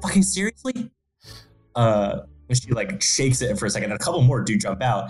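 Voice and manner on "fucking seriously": put-on whisper, much higher. Telling a story about a woman whose dice slip out of the box: retelling a whisper. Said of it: "she whispers like".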